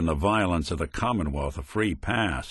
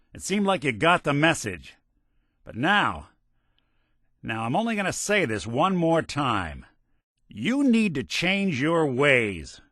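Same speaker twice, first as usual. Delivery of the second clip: stern final warning; 5 semitones higher than usual. Acted.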